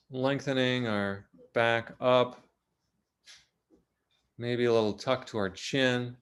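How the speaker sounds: calm, unhurried guidance with long pauses; measured meditation-teacher delivery; guided meditation. Real, not acted. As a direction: ease listeners gently into the body, leaving long silences. Leads a guided body meditation.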